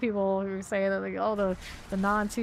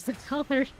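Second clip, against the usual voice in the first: higher wondering repeat; 5 semitones higher than usual. Real, not acted.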